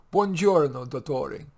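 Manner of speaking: Italian maid calling out. Acted. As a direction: call it down the hallway like a cheerful maid. Maria voiced.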